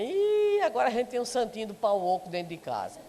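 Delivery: teasing, sarcastic family jab; mocking jibe. Relative teasing the newly devout at home, mild sarcastic jab. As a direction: needle the new convert with a sneer. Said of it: "alguém com a piadinha".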